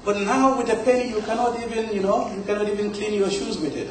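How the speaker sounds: high-pitched, quick imitation of a complaining elder; nostalgic elder. Poet imitates older Africans missing colonial days, high nostalgic grumble. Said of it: "they always seem to have this nostalgia".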